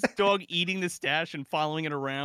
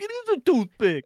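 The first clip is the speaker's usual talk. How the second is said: louder and higher, hitting IS hard; mock-firm correction from a stoned guy; hammed-up stoner insisting it is a toothpick; insistent stoner correction; 9 semitones higher, 6 dB louder than usual. Retold insistence in a stoner scene.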